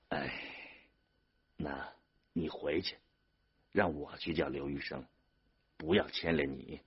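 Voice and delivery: soft, halting, with a sighed opening; subdued, resigned reassurance; quiet resignation. A narrator's reading. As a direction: send him home gently and wearily. Older brother resignedly sends him away.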